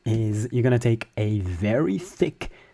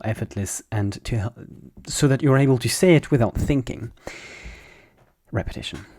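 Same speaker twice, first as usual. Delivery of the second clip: ordinary talk, nothing marked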